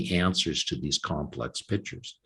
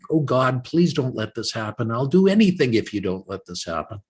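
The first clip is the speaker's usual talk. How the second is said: higher, louder mock plea to God; a light imitation of a desperate prayer, raised and louder; pleading prayer; 4 semitones higher, 3 dB louder than usual. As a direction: beg God as if bargaining. Retold bargaining prayer.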